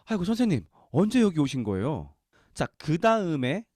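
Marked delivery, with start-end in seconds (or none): 0.1-2.1 높고 크게 반가워하며; eager greeting. Retold or imitated. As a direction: greet the teacher loudly and eagerly. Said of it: "말하였다". (스승을 찾아낸 제자들이 반갑게 크게 묻는)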